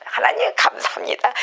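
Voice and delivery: joyful thanks. Retold or imitated. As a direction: cry out thanks in delight. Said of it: "막 아주 기뻐했었어요". (높고 기쁘게 외치는 감사)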